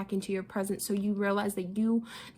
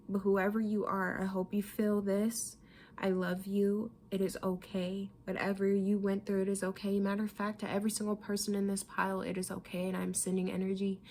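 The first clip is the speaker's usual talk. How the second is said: soft reassurance; 6 dB quieter than usual. Real, not acted. Consoling unknown viewer.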